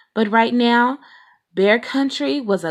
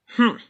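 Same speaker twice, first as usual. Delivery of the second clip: grumpy hmm; 4 semitones higher than usual. A narrator's reading. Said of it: "said Papa grumpily".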